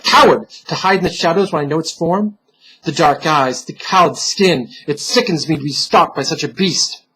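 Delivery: firm, rising defiance; lightly voiced defiant hero; defiant Trayson. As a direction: stand your ground against the unseen beast.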